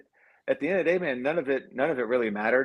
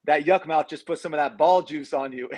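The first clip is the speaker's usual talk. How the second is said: gloating trash talk; 5 semitones higher, 3 dB louder than usual. Retold or imitated. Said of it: "And he goes".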